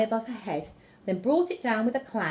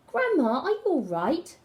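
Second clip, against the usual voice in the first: calling; 7 semitones higher than usual. Acted. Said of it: "called Little Red Riding Hood".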